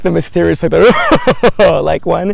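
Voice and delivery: high, loud mock mysterious villain; hammed-up sinister villain voice. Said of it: "give me your best evil villain laugh".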